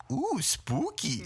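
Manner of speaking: high, drawn-out spooky oohing; excited child. Retold or imitated. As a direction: imitate a little kid thrilled by ghosts. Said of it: "she goes".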